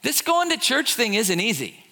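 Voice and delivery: self-pitying worshipper griping to God; mock complaining. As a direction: whine about how hard you've tried. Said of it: "They, they say".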